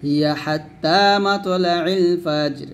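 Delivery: slow chanted verse on its own; Quran recitation. Shown as a demonstration. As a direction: intone it separately, drawn out. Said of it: "এখানে আমি এটা আলাদা পড়বো". (আলাদা করে ধীর তেলাওয়াত)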